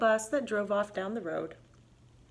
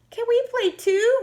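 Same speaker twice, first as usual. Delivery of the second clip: high, bright eager question; high eager rabbit; 6 dB louder than usual. Acted. Rabbit asking the animals to join, high and eager. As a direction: ask hopefully like a little rabbit.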